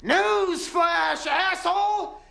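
angry high rant, words drawn out; exasperated outburst. Acted. Answering why they never said something, exasperated outburst. Heated shouted quarrel with partner.

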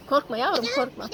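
calm a frightened little one. Real, not acted. Calming the scared child.

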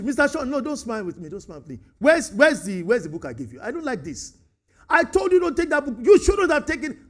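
scolding a friend, loud and sharp; lightly acted telling-off; mild reprimand. Preacher acting out scolding Mister Sean over a book, mildly angry. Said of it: "I'm reprimanding him".

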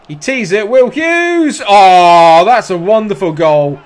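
yelling the scorer's name high and loud; roaring a commentator's goal shout; excited goal call. Real, not acted. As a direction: erupt as the ball goes in.

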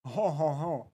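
imitating a stereotyped French laugh; mock French chuckle. Streamer imitates people faking French, with a mock French chuckle. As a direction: do the stock French "hon hon hon". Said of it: "everyone that wants to speak French, they say".

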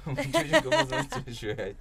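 talking through a high laugh; cracking up while speaking. Real, not acted. Laughing at brother's clever guess. (gülerek)

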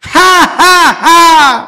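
high, loud, drawn-out ha ha ha; slow laugh in three beats. Shown as a demonstration. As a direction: stretch each ha on the beat. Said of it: "ví dụ như ha ha".

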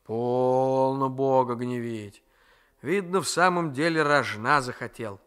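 lightly voiced old grandmother, slow and chiding; a hint of a fond, grumbling old woman; grandmother's voice. Grandmother chides.

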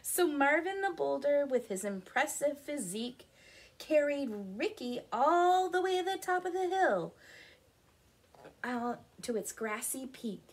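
animated picture-book narration; story reading. A narrator's reading. Telling children of the determined rocks, lively storytelling. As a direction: read it out clearly to young children.

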